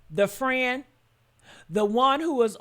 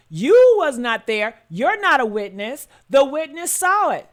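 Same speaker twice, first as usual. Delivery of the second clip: forceful, louder, scolding; 3 semitones higher, 6 dB louder than usual. Real, not acted. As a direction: tell them off sharply. Scolding a commenter.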